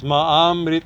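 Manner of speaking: "Ma amrit-" with both vowels kept apart; overemphasized word break. Shown as a demonstration. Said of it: "I, I overemphasize".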